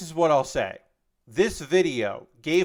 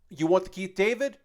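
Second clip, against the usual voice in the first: Keith David; 5 semitones higher than usual. Retold or imitated. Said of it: "And Keith David goes".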